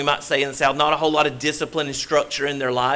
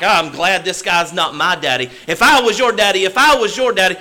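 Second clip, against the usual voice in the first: put-on boy's inner voice; 5 semitones higher, 5 dB louder than usual.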